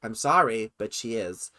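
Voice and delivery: lightly put-on American accent; American accent drifting from mimicry into own talk; imitation American accent. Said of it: "did that entire thing in an American accent".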